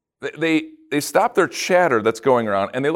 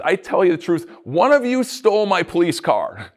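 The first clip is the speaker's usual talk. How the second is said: mild mock anger; 5 semitones higher, 4 dB louder than usual. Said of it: "busts in all angry and says".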